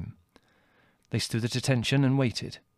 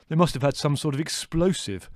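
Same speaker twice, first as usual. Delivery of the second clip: higher, forceful character voice; indignant; 4 semitones higher, 4 dB louder than usual. A narrator's reading. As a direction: protest in indignation. Leslie indignant about the explosion.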